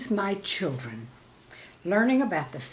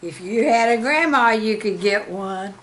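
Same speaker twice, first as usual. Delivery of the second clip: put-on knowing child; 3 dB louder than usual. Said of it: "the young man clued me in".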